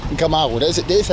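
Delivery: normal talking voice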